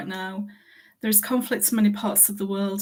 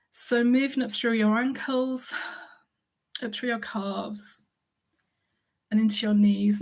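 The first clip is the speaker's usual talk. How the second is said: calm body-scan guidance, pausing between phrases; guided meditation. Acted.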